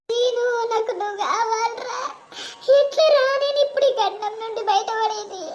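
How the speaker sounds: soft, despairing inner plea; desperate hushed lament. Acted. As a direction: murmur it to yourself, trapped and hopeless. Trapped bride's desperate inner lament.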